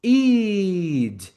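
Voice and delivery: long, drawn-out high "id"; slow "id" sounded as its own syllable; stretched id. Shown as a demonstration. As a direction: stretch the vowel of "id" before the d. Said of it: "se eu pronuncio id".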